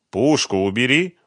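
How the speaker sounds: loud, insistent order, voice lifted; stubborn. A narrator's reading. Сухарев to Фёдор with a gun at his back, stubborn. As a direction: dig in and insist. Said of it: "упрямо повторил Сухарев".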